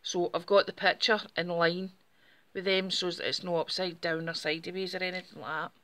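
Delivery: slightly breathless talking; out of breath. Real, not acted. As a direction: speak a little short of breath. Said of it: "Sorry, I'm a bit breathless just now".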